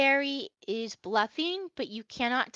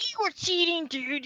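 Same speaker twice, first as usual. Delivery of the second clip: loud, higher accusing orc; 7 semitones higher, 4 dB louder than usual. Acted. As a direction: snap the accusation like a sore-losing orc. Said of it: "the orc is like".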